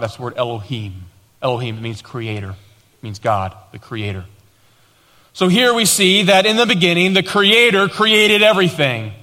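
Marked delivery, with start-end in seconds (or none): 5.3-9.1 raised, declaring sermon voice; emphatic preaching. Real, not acted. Pastor declaring the creator made everything, emphatic preaching. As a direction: proclaim it from the pulpit. Preaching after quiet teaching.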